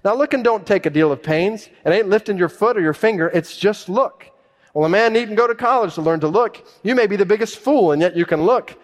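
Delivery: high, loud homespun preacher; animated country pulpit voice; unlearned preacher. Acted. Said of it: "The preacher began thus".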